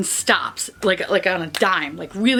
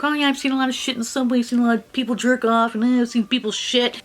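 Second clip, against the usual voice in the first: jokey boast; faster than usual. Retold or imitated. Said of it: "I always joke".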